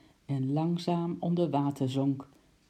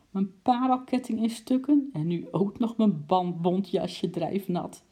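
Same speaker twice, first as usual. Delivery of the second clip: much higher and louder, laughing through; helpless giggles; 6 semitones higher, 4 dB louder than usual. Acted. Lady lists her mishaps, choking with laughter, high and loud. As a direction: list it while choking with laughter. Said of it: "Ze stikte haast van de slappe lach".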